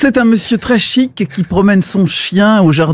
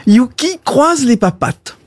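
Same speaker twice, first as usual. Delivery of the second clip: dog command; 3 semitones higher than usual. Acted. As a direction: call out "Yuki croise les papates" brightly to a dog. Owner commands dog in joke.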